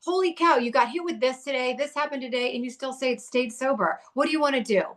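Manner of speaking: celebrating her sober day; proud husband. Retold or imitated. Husband cheering his wife for staying sober.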